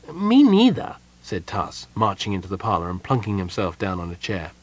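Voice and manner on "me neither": high, bright-eyed kender chirp; perky kender greeting at the door. A narrator's reading. Kender greets Palin at the door, high and perky.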